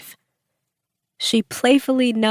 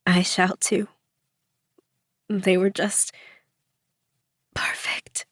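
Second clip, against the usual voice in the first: Ken Watanabe voice; 5 dB quieter than usual. Acted. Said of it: "respond in her best Ken Watanabe voice".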